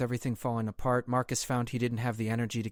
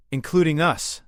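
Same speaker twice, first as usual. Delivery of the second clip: loud, high, emphatic objection; pointing out; 7 semitones higher, 11 dB louder than usual. A narrator's reading. Queen to translator about the deadly blast, pointing out. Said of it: "Zyra pointed out".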